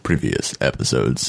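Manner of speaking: slow, low mock announcer; hammed-up impression. Co-host parroting a phrase back as a joke, hammed-up impression. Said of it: "I thought that was a good impression".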